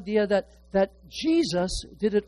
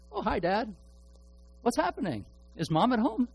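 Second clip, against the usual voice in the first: roommate phoning Dad; 6 semitones higher than usual. Retold or imitated. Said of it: "And he was just saying".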